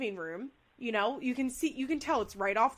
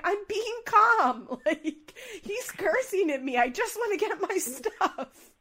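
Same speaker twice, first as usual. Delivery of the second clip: higher, louder, laughing protest; laughing mock plea; 9 semitones higher, 5 dB louder, slower than usual. Kail insisting she is calm, laughing. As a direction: laugh through an indignant plea.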